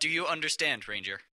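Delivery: loud, hard demand for obedience; stern rebuke. Acted. District boss cutting off the ranger, sternly. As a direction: lay down the law.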